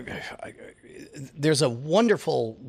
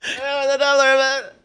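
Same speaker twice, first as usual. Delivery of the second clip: faster fly-by, pitch falling away; passing by doppler; 14 semitones higher, 7 dB louder, much faster than usual. Pretend. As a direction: rush past and fade the pitch down.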